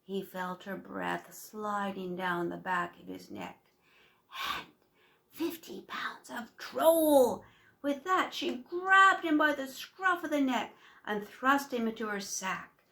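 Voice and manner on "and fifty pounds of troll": slow, loud witchy shout; gloating hag cry; triumphant cry. A narrator's reading. Witch grabs the troll.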